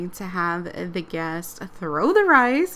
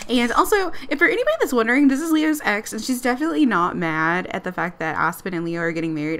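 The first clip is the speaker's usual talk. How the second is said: ordinary talk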